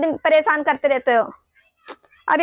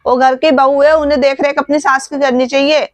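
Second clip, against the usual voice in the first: loud, indignant outburst at the brother's wife; angry shouting; 7 dB louder than usual. Acted. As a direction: shout it out, furious on mother's behalf. Daughter furious at her brother's wife. (गुस्से में ज़ोर से चिल्लाना)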